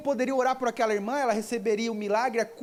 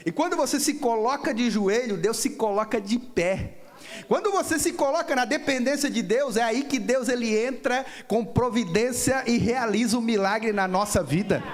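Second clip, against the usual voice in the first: raised, driving sermon delivery; fervent preaching; 3 dB louder than usual. Real, not acted. Preacher urging the church to depend on God, fervent preaching. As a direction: build the exhortation with mounting force.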